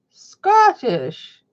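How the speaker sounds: attempted Scottish accent. Shown as a demonstration. Streamer failing at Scottish for chat, attempted Scottish accent. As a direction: another try at a Scottish accent. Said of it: "I can't do a Scottish accent".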